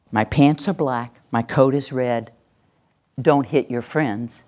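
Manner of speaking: measured, certain statements; voice of knowing. Shown as a demonstration. Trainer demonstrating certainty that still names the wrong thing, knowing. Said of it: "I've got my voice of knowing".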